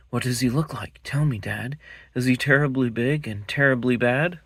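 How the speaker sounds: a curious cub begging dad to tell; Gruffalo's child. Acted. Child asks dad eagerly.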